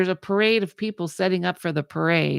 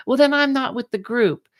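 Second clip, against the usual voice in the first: upset mom; 8 semitones higher, 6 dB louder than usual. Retold or imitated.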